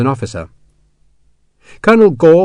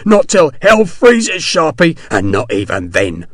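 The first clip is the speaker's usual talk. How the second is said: breathless defiance; 4 semitones higher, slower than usual. Acted. Winded Hexwell defying Sharp.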